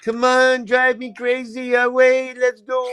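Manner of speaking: high excited egging-on; playful cheering. Pretend.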